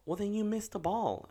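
high-pitched, easy parental comfort; retold reassurance. Dad soothing daughter about missing ball, reassuring. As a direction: lightly brush away a child's worry.

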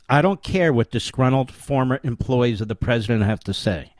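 pointed emphasis on "disgruntled"; stress on disgruntled. Real, not acted. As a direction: lean on the word "disgruntled". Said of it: "with emphasis on the word disgruntled".

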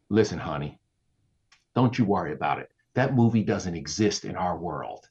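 calm a worried employee, unhurried and low; imitated motherly reassurance; retold reassurance. Boss reassuring him, retold.

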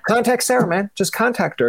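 pushy tourism ad, voice jumping up high; hyped ad pitch. Retold or imitated. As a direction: oversell Contact Sarah like a hyped-up ad.

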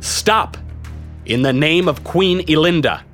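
mock-heroic proclamation. A narrator's reading. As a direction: proclaim it to the crowd like a would-be hero. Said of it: "my best imitation of a hero".

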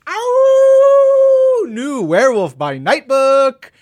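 loud, high, slow, howling with glee; excited howl. Real, not acted. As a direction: howl the title like a wolf.

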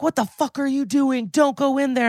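high-pitched imitation of a frantic colleague; playfully overdone alarm; mock alarmed protest. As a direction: act out an exasperated warning, voice pitched well up. Acted quote of alarmed colleague.

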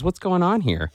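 a high, prying question; high-pitched nosy colleague. Retold or imitated. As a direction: voice jumps high, demanding. Co-leader butting in.

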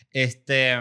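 ordinary delivery

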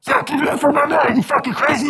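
high, fast hype-man call to the crowd; a rapper's hype voice. Retold or imitated. A rapper hyping the crowd for another rapper, high fast MC shout. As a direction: rile the crowd up like an MC on the mic. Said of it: "And the rapper's like".

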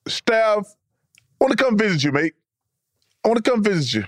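amateur Australian accent; Aussie accent. Shown as a demonstration. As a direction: try a rough Aussie accent, haltingly. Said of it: "give us an Aussie accent".

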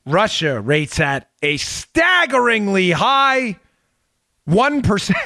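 slow, dry mock amazement; sarcastic. Shown as a demonstration. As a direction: drag it out with heavy sarcasm. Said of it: "Being sarcastic, obviously".

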